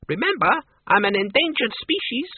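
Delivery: high, squeaky little voice; squeak. A narrator's reading. The Count about to be thrown, squeaking. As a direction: squeak out a protest, pitched right up. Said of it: "the Count squeaked".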